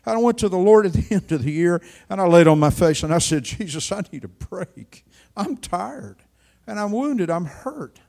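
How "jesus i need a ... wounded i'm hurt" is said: weary prayer. Retold or imitated. Preacher retells his weary prayer.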